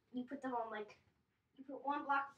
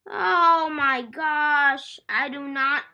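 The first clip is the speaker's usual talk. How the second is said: whiny cry; 3 semitones higher, 15 dB louder, much slower than usual. Real, not acted. Lost paint, distressed cry.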